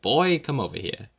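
mock-rude waiter summons. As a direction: summon a waiter rudely, pitch jumping on "Boy". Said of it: "be rude to a waiter".

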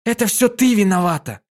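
high loud blaming cry; filly yelling blame at mother; angry shout. A narrator's reading. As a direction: hurl the blame at her. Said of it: "закричала Динки в ответ".

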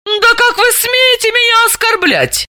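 high, indignant protest; возмущённо. A narrator's reading. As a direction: bristle at the insult. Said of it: "возмутилась Далила".

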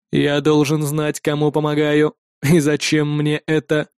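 low, very slow, detached synthetic voice; a machine weighing whether to save him; cold android voice. Acted. Android questions calmly.

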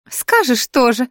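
the grumpy flower scolding Melissa in a high whiny wail; grumbling flower. Acted. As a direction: lament like a fussy old plant. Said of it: "фыркнуло растение".

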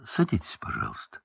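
half-whispered offer to sit; soft quiet plea. A narrator's reading. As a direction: say it hushed, almost voiceless. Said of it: "голосил он".

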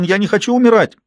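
put-on high, loud terrified boy's cry; small son screaming for his mother; screaming little boy. A narrator's reading. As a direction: cry out like a child afraid to die. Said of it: "кричал он".

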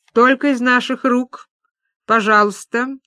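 ultimatum. Acted. Маша refuses to hand over the cheque, firm. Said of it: "предъявила ультиматум Маша".

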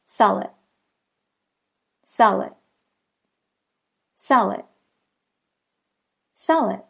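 "Sell it" joined as one word, sɛlɪt; linked demo. Shown as a demonstration. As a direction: roll the l of "Sell" into "it". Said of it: "That should sound like this".

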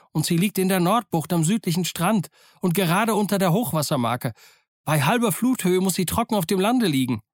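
put-on high, insistent young hero; earnest, agitated Jim. A narrator's reading. Plays Jim earnestly answering doctor. (aufgeregter Jim, eindringlich)

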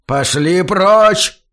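dragged-out whining plea, loud but broken; whimpered. A narrator's reading. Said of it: "проскулил старик".

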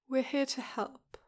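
a touch of gentle soothing; soft and gentle. Acted. Nurse gently reassures an anxious Huck, mildly soft. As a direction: ease it out gently, mild and slow. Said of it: "the nurse says slowly, voice in that soft, gentle tone".

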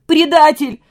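high, loud cry of traitor; hysterical shout. A narrator's reading. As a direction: fling the word in hysterics. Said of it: "кричал в истерике Костя".

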